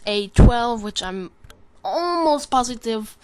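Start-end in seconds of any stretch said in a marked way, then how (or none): 1.9-3.1 slow mock Russian accent, higher pitched. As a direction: stretch it out in a put-on Russian accent. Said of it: "I said positive in a Russian accent".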